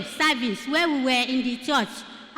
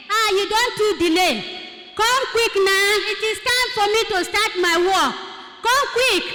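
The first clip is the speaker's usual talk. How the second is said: imitated impatient caller, slightly raised; loud phone voice; 4 semitones higher than usual. Caller hurrying the driver over the phone, retold loud urging. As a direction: urge the driver on, pitch lifting. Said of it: "the phone begin to speak loud".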